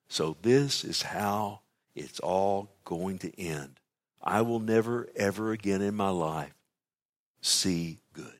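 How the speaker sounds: slow, mildly sombre quote; understated despair, spaced out in weary phrases; sad. Acted. Preacher voicing Job saying how it ends, mildly sad. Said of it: "sad words from the lips of Job".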